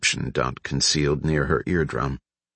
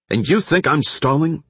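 high-pitched incredulous question; mock disbelief; 10 semitones higher than usual. A narrator's reading. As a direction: throw it back as if you can't believe it. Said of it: "shook her head in mock disbelief".

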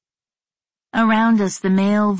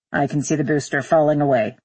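lower-pitched pilot observation; astronaut on radio; 4 semitones lower than usual. Acted. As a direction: report the sight to control. Astronaut reports from the rocket.

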